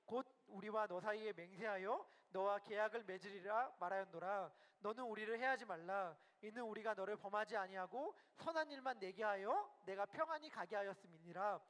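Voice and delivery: steady, measured Bible reading; scripture reading. Acted. Preacher leading the congregation through Genesis, evenly read scripture. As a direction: read the verses aloud in an even congregational cadence. Reads the Bible passage aloud.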